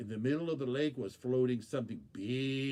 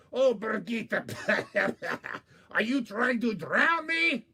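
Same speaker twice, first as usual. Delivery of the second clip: loud, higher, half-laughing angry cry; mad coyote; 8 semitones higher, 7 dB louder than usual. Acted. Coyote spluttering at Borgita, loud and angry. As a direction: yell at her while sputtering. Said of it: "got very mad".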